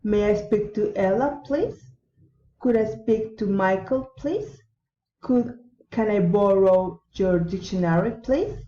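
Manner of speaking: level request, then a sharp lift on "please"; rising request intonation. Shown as a demonstration. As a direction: end every request with "please" climbing steeply. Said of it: "rising intonation".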